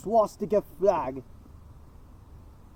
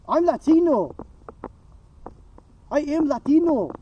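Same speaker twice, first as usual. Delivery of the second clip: emphatic loud insistence; 5 semitones higher, 5 dB louder than usual. Real, not acted.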